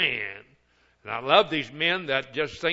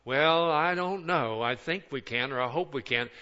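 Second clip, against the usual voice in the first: mock hesitant. Mocking a hesitant church.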